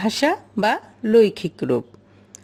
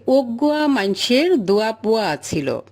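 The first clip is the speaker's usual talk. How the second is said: Chittagong dialect. Shown as a demonstration. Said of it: "যে".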